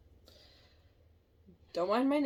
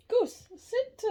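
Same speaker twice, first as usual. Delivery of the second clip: firm dog command; 8 dB louder than usual. Real, not acted. Ordering the dog to sit.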